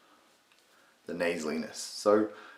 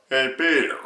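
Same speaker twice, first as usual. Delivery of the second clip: higher, louder nasal catchphrase voice; Patrick Warburton; 6 semitones higher, 7 dB louder than usual. Shown as a demonstration. Tutor demonstrating the mid-range catchphrase, loud Warburton impression. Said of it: "in the mid-range".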